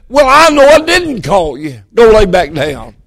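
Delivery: mildly exasperated, starting high and dropping; a bit aggravated. Acted. Eli sends Samuel back to bed, a bit aggravated. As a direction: send someone off with a touch of irritation. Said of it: "Probably a little bit aggravated".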